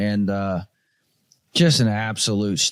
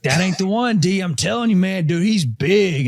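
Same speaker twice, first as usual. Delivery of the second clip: father-in-law insisting; 7 semitones higher, 4 dB louder than usual. Retold or imitated. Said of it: "He's like".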